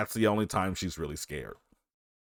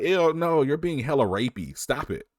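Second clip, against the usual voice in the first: mock disgusted protest; 6 semitones higher than usual. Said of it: "she's like".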